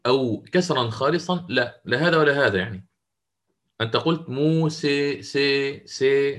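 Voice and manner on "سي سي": سي with the vowel between fatha and kasra; neither pure a nor pure i in سي; taqlil demo. Shown as a demonstration. Teacher showing students a vowel halfway between a and i. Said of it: "هكذا".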